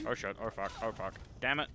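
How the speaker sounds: loud burst of oh shit oh fuck; panicked swearing. Real, not acted. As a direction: yell it as the fight goes wrong. Surprised in fight.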